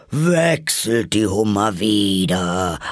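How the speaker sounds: theatrical creature howl; contained, drawn-out yell. A narrator's reading. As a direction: howl it out, stretching the vowels. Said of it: "heulte der Greif mit erhobener Stimme".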